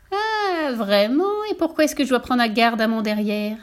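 mocking high «Ah» then spiteful questioning; a nasty little witch pouncing; sharp witch voice. Witch catching the teller out, sour and mean. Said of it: "petite voix pointue, aigre, méchante".

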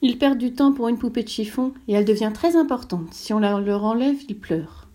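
a hint of a child speaking up; little prince voice.

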